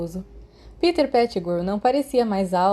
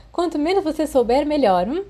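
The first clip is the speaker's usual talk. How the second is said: nervous; 8 semitones higher, 3 dB louder than usual. A narrator's reading. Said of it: "Peter riu nervoso".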